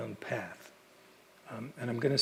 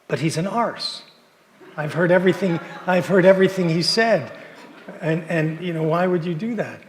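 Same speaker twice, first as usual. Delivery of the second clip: put-on louder, higher English girl indignant; a barista from England protesting, louder; English accent; 6 semitones higher, 12 dB louder than usual. English barista objecting to buying coffee, indignant English accent. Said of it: "I remember by her accent".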